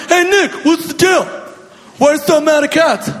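high, mock-puzzled heckler voice; mock audience question.

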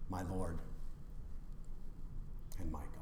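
soft, low, reverent awe; hushed confession. Acted. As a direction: breathe it out in wonder. Thomas's confession quoted.

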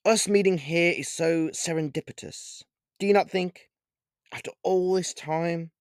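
lightly voiced suave vampire; snooty vampire.

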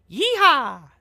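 loud, high celebratory whoop; a real celebratory yeehaw; cowboy yeehaw. Real, not acted. Celebrating Biden's win.

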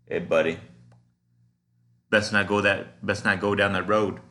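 friendly Southern warning, easygoing; Southern country way. Retold or imitated. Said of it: "But to say buddy in a country way".

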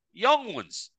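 put-on young ones, leaning on young; stress on young. Shown as a demonstration. Telling his mate about TikTok, stressing young. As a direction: make young heavy and pointed. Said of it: "I am stressing the word young".

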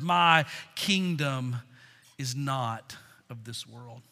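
slow, low and measured; soft, deliberate scripture reading; solemn quotation. Acted. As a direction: weigh each word quietly, pausing midway. Reads Jesus' words slowly and solemnly.

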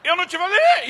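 hammed-up angry dad; scolding shout. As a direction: bark the reprimand. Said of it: "Dei sermão".

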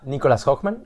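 "Hoffman" said the Spanish way, with a k sound before -man; Spanish pronunciation. Shown as a demonstration. Host checks guest's surname, "Hoffman" in Spanish pronunciation. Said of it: "Así se pronuncia en español tu apellido".

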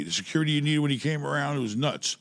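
talking away from the microphone; turned away from mic. Real, not acted. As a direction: voice off-mic, a bit distant. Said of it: "Talk in your mic".

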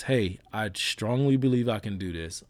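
firm, measured confidence without the giddiness; grounded self-belief. Acted. Showing listeners real self-belief, grounded and firm. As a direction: state it with steady conviction. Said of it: "It's not that. It, it is".

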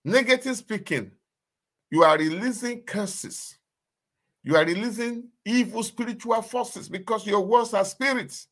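retold shocked realization. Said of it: "I said".

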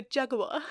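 "Jaguar" as JAG-wah, no final r; car pronunciation. Shown as a demonstration. Topping a friend's car version, JAG-wah. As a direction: drop the r ending Jaguar. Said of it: "if I'm talking about the vehicle".

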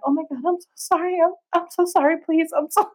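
mock-frantic teenage apology; panicked apology. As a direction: gush sorry like a mortified thirteen-year-old. Teen apologising to scared stranger.

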